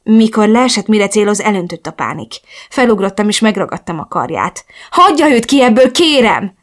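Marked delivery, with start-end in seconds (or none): 4.9-6.5 higher, louder urgent plea; desperate pleading. A narrator's reading. Prisoner begging the captor to leave her friend out, pleading. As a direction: beg urgently, voice raised. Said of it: "kérleltem".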